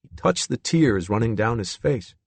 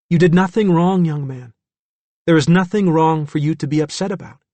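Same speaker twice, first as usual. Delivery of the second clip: higher-pitched, firm reassurance; gentle but firm; 6 semitones higher, 3 dB louder than usual. A narrator's reading. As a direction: reassure him firmly and kindly. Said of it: "With a gentle but firm voice".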